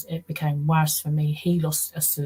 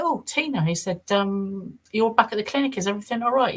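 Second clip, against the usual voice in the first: mock high surprised greeting, pitched up; imitating his startled high voice; surprised professor; 5 semitones higher than usual. Professor startled to see Tina back at the clinic, high surprised voice.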